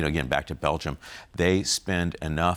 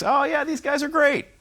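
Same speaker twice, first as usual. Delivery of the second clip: much higher, gushing naive voice; imitating Witkoff; 4 dB louder than usual. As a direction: play the gullible envoy, all starry-eyed. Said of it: "he just thinks".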